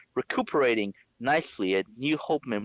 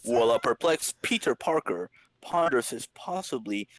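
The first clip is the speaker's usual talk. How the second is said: dramatic caption read; comic narration. A narrator's reading. Narrator setting up Peter Parker's dilemma, dramatic.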